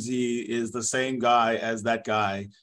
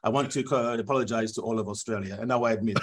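softer, confessing French referee; a light French accent, apologetic; sheepish mock French accent; 4 semitones lower, 3 dB quieter than usual. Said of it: "this is my actual interview".

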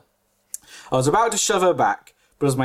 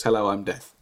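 grating voice; 6 semitones lower than usual. Retold or imitated. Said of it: "in a grating voice".

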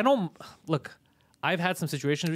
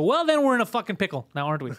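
mock exasperation; 3 semitones higher, 3 dB louder than usual. Retold argument with Uber agent.

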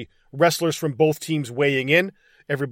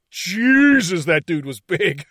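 awed exclamation; 3 semitones higher, 4 dB louder, slower than usual. Real, not acted. Marvelling at wrestler's physique.

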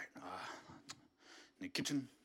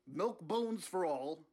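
slow Bernie slogan; 3 semitones higher, much slower than usual. Acted. Bernie promises the dogs treats, slowly, like a slogan. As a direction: stretch it out like a campaign slogan, slowly.

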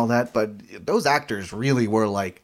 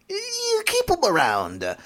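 very high, drawn-out strained voice; imagined creators; slower than usual. Acted. Creators eager to keep an actor, high strained squeal. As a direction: squeal it slowly, pitched way up.

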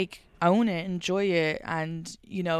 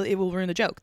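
ordinary talk

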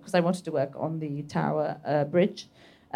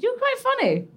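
quoted stranger. Retold or imitated. Retold exchange, voiced stranger.

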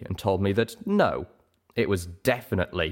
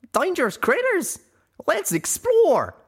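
put-on high, hammy copy of a young mare; mock her eager voice badly; poorly mimicked voice; 5 dB louder than usual. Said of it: "mimicking my voice. Poorly, I might add".

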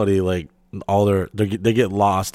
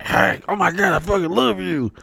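high gushing excited lady; imitating an older lady's excited gush; excited fan; 8 semitones higher than usual. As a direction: squeal it like a starstruck fan. Excited fan greeting him.

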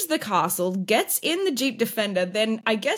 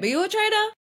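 high, breezy turnaround; sweet counter-question; 12 semitones higher, faster than usual. Pretend. Playing herself at the breakfast table, turning the question back. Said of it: "we'll do it as a play".

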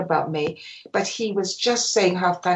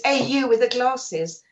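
retold order, higher and slow; Brian Clough; 4 semitones higher than usual. Manager ordering photographer off the pitch, mildly stern retelling. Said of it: "Brian Clough ordered me off the pitch".

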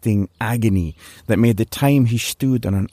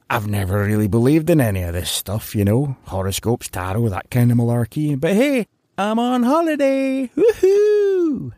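rambling then a high whooping cheer; giddy cheer; 5 semitones higher than usual. Acted. Drugged Larry telling the fortune teller he is on holiday, whooping. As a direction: build to a silly holiday whoop.

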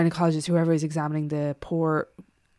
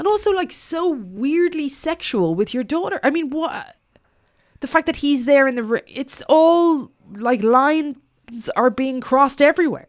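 disgusted, pitched way up; high-pitched outrage; 8 semitones higher, 5 dB louder than usual. Real, not acted. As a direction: squeal it out in disbelief. Outraged about creepy dad.

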